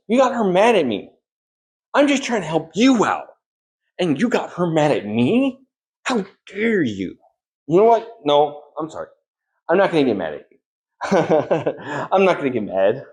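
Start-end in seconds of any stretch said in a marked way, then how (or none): 0.1-8.1 higher, indignant telling-off; indignant scolding. Acted. Scolding Nathanos for getting her angry, higher and indignant.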